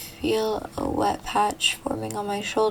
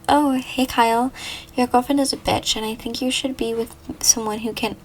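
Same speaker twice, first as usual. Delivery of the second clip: put-on girl on the phone; 2 semitones higher, 3 dB louder, faster than usual. Caller insulting his girlfriend to Kyle, perky and loud. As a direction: push it up and forward as the pushy caller.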